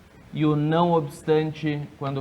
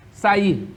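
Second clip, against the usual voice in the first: "Saí" with the final I stressed, higher pitch; "Saí", strong raised I; 4 semitones higher, 3 dB louder than usual. Shown as a demonstration. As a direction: lean hard on the last vowel of "Saí". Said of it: "O I é tônico?".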